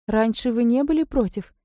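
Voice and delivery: a spoiled favourite sulking; capricious. A narrator's reading. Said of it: "капризно надула губки".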